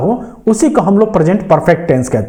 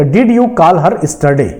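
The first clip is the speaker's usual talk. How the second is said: words spaced out slowly as a dictation; teacher slowly reading the corrected question; slow example read; much slower than usual. Shown as a demonstration. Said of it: "तो".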